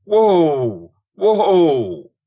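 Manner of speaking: very high, loud whoa, falling away; desperate yell. Acted. Corson clinging to the bolting horse, yelling whoa. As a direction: scream at the horse to halt.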